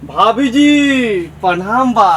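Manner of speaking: drawn-out singsong call. Acted. Villager hails his sister-in-law on arriving, drawn-out call. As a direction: call out, stretching the last sound long.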